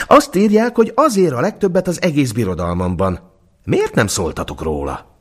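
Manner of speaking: emperor. A narrator's reading. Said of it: "mondotta a császár".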